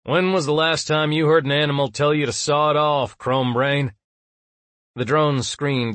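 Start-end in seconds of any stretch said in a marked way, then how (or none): 0.0-3.9 defiant. A narrator's reading. Defiant retort to drone.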